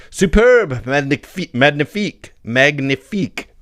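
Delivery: a Frenchman gushing over a watch, pitch up; French exclamation. Acted. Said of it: "a Frenchman inspects a watch and cries".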